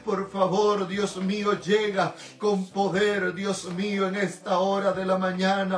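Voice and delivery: earnest, pleading intercessory prayer; fervent prayer. Real, not acted. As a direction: pray in rolling phrases, calling on God throughout. (oración ferviente de intercesión)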